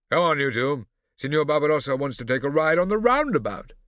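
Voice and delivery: haughty, loud imitation of a father; condescending Dottore Massimo. A narrator's reading. Scipio imitating his father to Barbarossa, condescending. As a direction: look down on him loudly.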